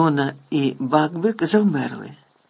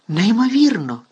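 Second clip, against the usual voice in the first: hint of joy; 6 semitones higher, 5 dB louder than usual. A narrator's reading. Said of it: "нотки радості".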